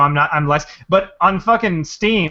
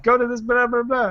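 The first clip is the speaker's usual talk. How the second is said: mock spammer; 7 semitones higher than usual. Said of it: "they're always like".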